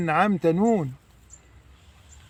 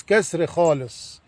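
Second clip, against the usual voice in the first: slow insistence. Shown as a demonstration. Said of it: "اكسر كويس".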